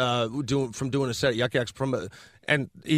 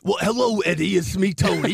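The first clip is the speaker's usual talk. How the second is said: a light Tony Danza impression, slightly higher; breezy New York greeting, lightly voiced; 4 semitones higher than usual. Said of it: "Why are you Tony Danza all of a sudden?".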